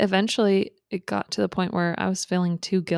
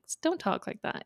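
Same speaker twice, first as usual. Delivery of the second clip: high, soft, half-whispered reproach; retold hushed scolding; 10 semitones higher, 7 dB quieter than usual. Retelling how she hit her friend for saying it, hushed mock scolding. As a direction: imitate shushing someone softly.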